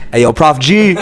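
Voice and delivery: loud laughing "hey yo"; laughing greeting. Retold or imitated. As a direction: call out then burst out laughing. Greeting his idol, laughing.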